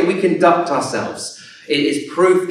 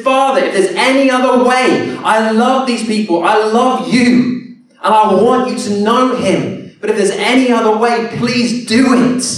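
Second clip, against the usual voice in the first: higher, urgent plea to the Father; pleading cry; 4 semitones higher than usual. Acted. Jesus praying to the Father, higher and pleading. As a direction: beg the Father for another way. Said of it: "Jesus cries out and he says".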